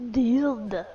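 dude stretched into a long low "Dude"; drawn-out dude. Retold or imitated. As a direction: hold the vowel of "Dude" long. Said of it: "Dude, but with two O's".

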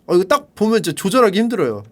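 ordinary talk

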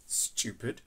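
voiceless, soft whispered insult; a cold whispered jab; harsh whisper. Retold or imitated. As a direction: breathe the word out with contempt.

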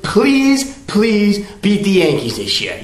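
begging. Real, not acted. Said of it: "I beg you".

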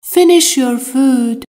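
slow, each word laid out clearly; slow model sentence. Shown as a demonstration. Teacher to Persian learners, slow and clear. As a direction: spell it out slowly for learners. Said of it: "teacher models an English sentence".

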